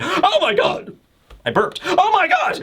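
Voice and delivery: high, laughing, jokey gasp of dismay; mock shock. Joking that Vegapunk just burped, high laughing mock shock. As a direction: ham up fake horror while giggling. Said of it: "That could also be a shocked moment, like".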